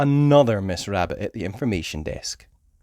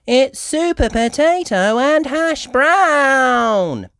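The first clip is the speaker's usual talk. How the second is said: starstruck whisper; 6 dB louder, much slower than usual. A narrator's reading.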